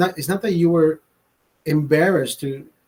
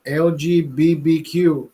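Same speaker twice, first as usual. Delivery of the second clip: 1 slow punchline; slower than usual. Retold or imitated. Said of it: "what do you call a lesbian on fire".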